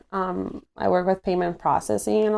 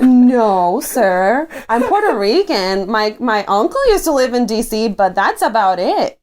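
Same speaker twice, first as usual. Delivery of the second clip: louder, mock-indignant retort; retold emphatic objection; emphatic denial; 5 dB louder, slower than usual. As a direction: protest firmly, playing it up. Acts out own startled denial.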